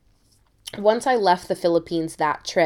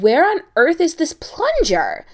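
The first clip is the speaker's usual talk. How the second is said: frantic search; 8 semitones higher, 5 dB louder than usual. Retold or imitated. Frantically tearing the apartment apart.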